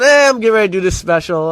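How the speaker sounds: retold brush-off, tossed out fast; offhand self-quote. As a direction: shrug off your own big news. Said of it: "why you say it like that".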